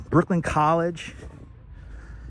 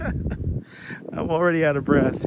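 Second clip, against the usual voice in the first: laughing breathless; slower than usual. Real, not acted.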